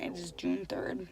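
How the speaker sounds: whispering. Real, not acted. Low aside, date check.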